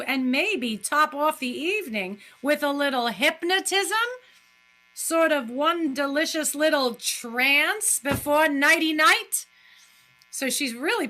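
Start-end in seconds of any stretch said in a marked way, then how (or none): 0.0-9.5 acted doctor. Acting the doctor, teasing.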